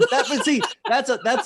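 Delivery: laughing through the words; high, loud laugh while talking. Real, not acted. Laughing at the story.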